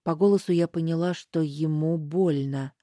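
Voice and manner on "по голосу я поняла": ordinary delivery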